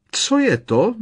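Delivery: high frightened yelp; shriek. A narrator's reading. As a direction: squeal it out in fright. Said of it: "vyjekla teta Petunie". (vyděšené vyjeknutí)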